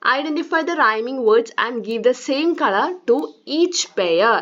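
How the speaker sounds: reading the task very slowly, word by word; slow instruction read. Acted. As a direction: spell the instruction out slowly for children. Reads the activity instruction slowly.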